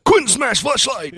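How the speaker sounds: dinosaur voice. Pretend. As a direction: Hulk smash, bellowed in a big monster voice. Hulk-style monster smashing voice.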